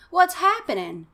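put-on a boy suddenly terrified; fear. Casey caught by the tree, high panicked question. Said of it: "paralyzed with fear".

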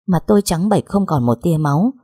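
usual speaking voice

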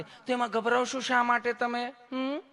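high, sweetly soothing nurse; mock-affectionate nurse voice; lovingly asking nurse. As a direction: coax the patient, ending on a little hum. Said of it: "તમે કેટલું પ્રેમથી પૂછો છો".

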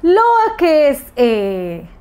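lowercase drawn out slowly; slow naming. Shown as a demonstration. Teacher to little children, naming the letter slowly. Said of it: "And what did this become?".

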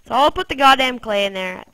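ordinary delivery

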